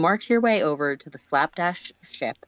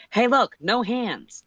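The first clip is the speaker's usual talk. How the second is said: reckless bravado; 9 semitones higher, 4 dB louder, slower than usual. Retold or imitated.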